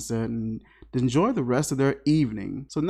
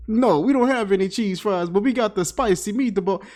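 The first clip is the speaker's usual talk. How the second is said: put-on lightly caricatured Italian accent, a little high; mock Italian accent; 4 semitones higher than usual. Waiter answering about cheese fries, mock Italian accent. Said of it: "kept making these guys talk like that".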